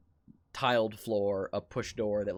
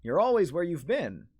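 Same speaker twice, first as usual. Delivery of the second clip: louder, higher, unsettling shopkeeper voice; creepy butcher; 6 semitones higher, 8 dB louder than usual. Acted. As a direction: play the grinning butcher toying with him. Butcher answers eerily.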